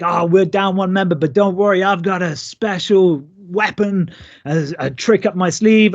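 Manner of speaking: mild showman's build-up to a secret weapon; geeing up crowd. Retold or imitated. Wrestler in the ring geeing up the crowd, mildly hyped. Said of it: "I start shouting, geeing it up".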